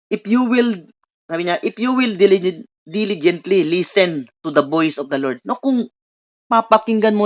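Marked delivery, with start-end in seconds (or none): 0.1-5.4 scripture reading. Acted. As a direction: lay each word of the verse down carefully. Reading scripture aloud to congregation.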